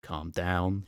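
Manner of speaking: put-on Calm down thrown back in a Scottish accent; mock his plea in a Scottish accent; the monster mocking the man's plea in a Scottish accent; mocking Scottish echo. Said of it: "he says".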